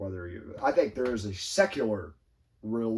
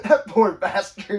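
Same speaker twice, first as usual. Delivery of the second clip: laughing; 9 semitones higher, 11 dB louder, slower than usual. Real, not acted. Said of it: "And I'm like".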